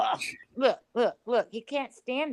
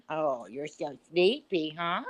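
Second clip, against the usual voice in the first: cooing to a dog; 2 semitones lower, 3 dB quieter than usual. Real, not acted. Cooing at sleepy dogs.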